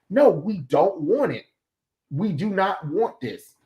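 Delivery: slow, emphatic pushback on "don't want it"; firm refusal. Acted. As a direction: refuse deliberately, weighting each word of "do not want this". Voices audience refusing, firmly.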